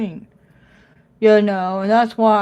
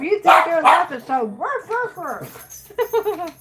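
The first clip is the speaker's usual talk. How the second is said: teasing; 8 semitones higher, much slower than usual. Pretend. Teasing the dog in barks.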